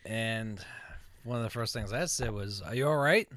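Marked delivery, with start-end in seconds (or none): 2.6-3.3 retold sarcastic question, louder with a rising end; sarcastic check on someone. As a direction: ask it with mock concern. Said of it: "Being sarcastic".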